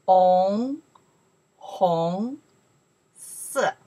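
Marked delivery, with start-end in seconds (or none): 0.1-2.4 红 starting low and sweeping upward; second tone. Shown as a demonstration. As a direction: model 红 with a clear rising tone. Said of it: "because second tone".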